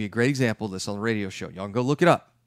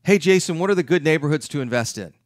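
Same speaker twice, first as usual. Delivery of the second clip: louder, higher mock-eager call of Hey Jason; eager question; 3 semitones higher, 4 dB louder, faster than usual. Retreat attendee calling out to Jason, mock eager. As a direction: call out the question like you can't wait. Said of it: "I get this question at every single weekend retreat".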